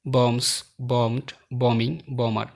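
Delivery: "বম্বস, বম্বড, বমিং, বমার" with the B after M left silent. Shown as a demonstration. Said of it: "বি এখানে silent".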